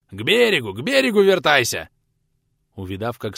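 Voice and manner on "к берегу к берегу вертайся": louder, higher shouted command; a skipper yelling orders to his crew; bellowed order. A narrator's reading. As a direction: roar at the rowers to turn back. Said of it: "проорал тот приунывшим мужикам".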